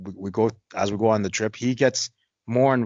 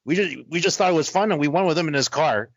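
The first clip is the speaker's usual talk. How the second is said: mock girl voice; 4 semitones higher than usual. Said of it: "She's like".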